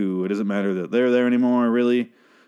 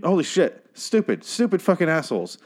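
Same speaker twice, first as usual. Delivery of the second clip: higher, exasperated swearing at the screen; pissed off; 7 semitones higher than usual. Real, not acted. Fan fuming over a TV scene, exasperated swearing. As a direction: vent real annoyance, pitch jumping up. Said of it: "I really am just really pissed".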